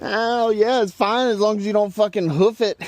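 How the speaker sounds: pained laughing. Real, not acted. Laughing through toe pain.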